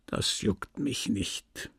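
hushed, deliberate brush-off; cold indifference. A narrator's reading. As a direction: end it quietly, unmoved. Merchant coldly shuts her out.

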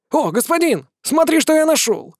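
high, eager cry of discovery; excited discovery. Acted. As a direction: show off the find, thrilled. Excited demon shows find. (восторженный возглас)

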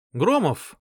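high loud call right in the ear; shouting a name. Acted. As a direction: shout to wake him. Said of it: "крикнул Варг чуть ли не мне в ухо".

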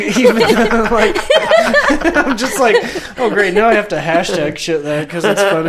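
talking through laughter; words breaking up with laughs; laughing. Real, not acted. Laughing through own hashtag joke.

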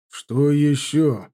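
slow, heavy what-now; a father expecting worse, drawn out; wary dread. A narrator's reading. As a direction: stretch «ещё» slowly with dread. General braces for more bad news.

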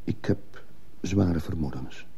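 slow, low-volume confession; reluctant admission. Acted. Witness admits suspicions to the commissioner, reluctant and hushed. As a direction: admit it carefully, softly, weighing each word.

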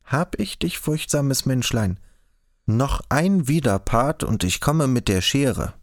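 sing-song menace posing as a joke; forced joking threat. A narrator's reading. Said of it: "drohte Frau Behold gezwungen scherzend". (viel höher, gezwungen neckisch drohend)

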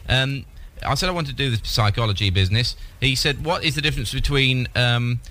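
put-on dim old man voice. Prank caller plays a dim old man.

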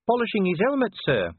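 high-pitched, panicky junior officer; near panic. A narrator's reading. Cheery answers Vimes, on the point of panic. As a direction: answer the boss on the edge of panic. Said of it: "on the point of panic".

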